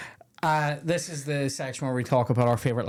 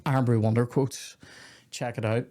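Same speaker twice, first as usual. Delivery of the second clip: stiff robotic sponsor read; 2 semitones lower than usual. Acted. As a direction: read it like a wooden ad. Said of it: "you're just robotic about it".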